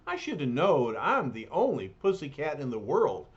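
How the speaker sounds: streetwise bruiser, lightly voiced; rough, folksy big lug; gruff tough guy voice. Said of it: "here comes the Thing".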